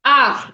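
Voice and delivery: R rolled in the back of the throat; French R, gargled at the back. Shown as a demonstration. Teacher showing students the throat R, clearly. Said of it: "We from your throat".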